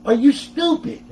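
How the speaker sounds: high, loud mock scolding; imitating grumpy father. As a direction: scold like an exasperated dad. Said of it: "always so grumpy and stuff".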